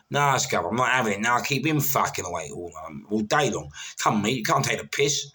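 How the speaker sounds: loud. Retold or imitated. Retold row with the officer.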